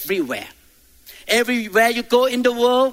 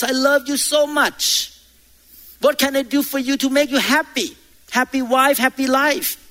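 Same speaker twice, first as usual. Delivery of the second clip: higher, gushing loving husband voice; husband sweet-talking his wife, higher and gushing; 4 semitones higher than usual. Retold or imitated. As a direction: lay the flattery on thick to your wife. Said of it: "you see your wife and you say".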